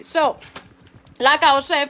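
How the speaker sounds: ordinary talk, nothing marked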